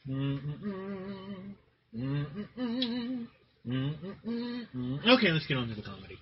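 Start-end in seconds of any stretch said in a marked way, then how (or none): 0.1-5.1 mock mourning hum. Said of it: "moment of silence for Pepe Le Pew".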